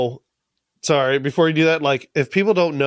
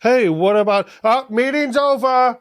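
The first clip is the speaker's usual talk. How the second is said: lightly acted, raised pitch; hurried mock meeting-closer, pitched up; mock council chatter; 8 semitones higher than usual. Hosts imagine council cutting off Lord Beesbury, mock dismissive.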